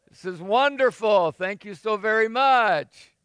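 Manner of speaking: hammed-up sarcastic thanks, slowing down; mock gratitude. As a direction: pretend to be thankful for trouble, drawing out the thanks.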